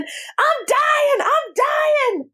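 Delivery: high-pitched mock scream; retold scream. Brother mimics a dude on the floor at a party, screaming. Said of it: "and he's screaming".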